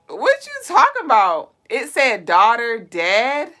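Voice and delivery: loud incredulous question; shocked. Real, not acted. Shocked at misheard title.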